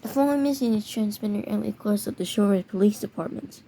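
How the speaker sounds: reading an official emergency bulletin, mild announcer voice; emergency alert announcer. Acted. Warning Charlotte residents of a made-up danger, mock announcer read. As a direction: play the serious alert voice, lightly done.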